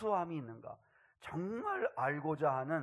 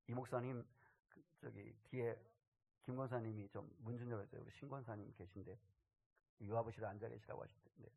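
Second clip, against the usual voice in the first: softer side remark to staff; quiet aside; 3 semitones lower, 10 dB quieter than usual. Real, not acted. Pastor asking staff to open the door, softer aside. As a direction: drop the voice for a quick aside.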